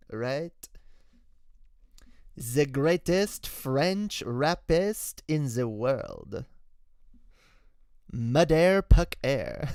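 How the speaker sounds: put-on slow, drawn-out French accent. French accent character bit.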